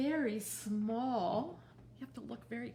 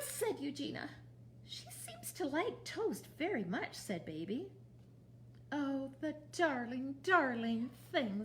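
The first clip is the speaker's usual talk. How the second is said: put-on lively read-aloud for small children; storytime reading. A narrator's reading. Librarian reading Mercy Watson to children, lively storybook voice. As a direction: read it to the kids with big expressive character voices. Reads picture book to children.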